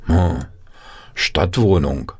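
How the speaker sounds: understated sigh from a country mouse; a mild, musing sigh. Acted. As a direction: sigh it out, unimpressed. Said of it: "seufzte die Landmaus".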